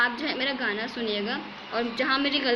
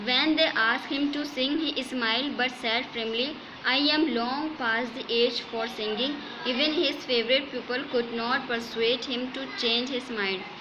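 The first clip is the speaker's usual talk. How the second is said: slow, measured textbook reading; story read-aloud; much slower than usual. A narrator's reading. Teacher reads English story to students, slow measured read-aloud. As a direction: read it out phrase by phrase.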